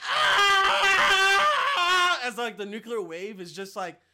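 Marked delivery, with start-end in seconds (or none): 0.1-2.2 high, loud mock scream of a woman burning; imitated scream. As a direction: shriek like she's caught in the blast. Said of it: "and she's like".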